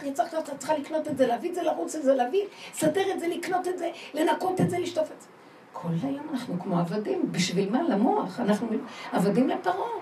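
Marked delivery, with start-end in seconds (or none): 0.0-5.3 quick higher bossy list of chores; nagging brain's orders. Retold or imitated. The brain ordering them around, fast higher nagging. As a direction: rattle off the chores like a pushy boss. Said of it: "אז הוא אומר לנו".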